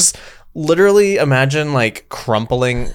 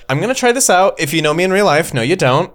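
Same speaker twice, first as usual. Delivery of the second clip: TikTok streamer voice; 4 semitones higher than usual. Retold or imitated. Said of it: "so many that are like".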